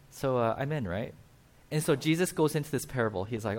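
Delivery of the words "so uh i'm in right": softer, knowing, as if letting out the real meaning; quiet wink at what he truly means; sly aside. Retold or imitated. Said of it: "that's code for".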